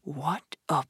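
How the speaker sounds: slow dreamy whisper; murmured. A narrator's reading. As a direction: hush it out, spellbound. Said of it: "Toad murmured".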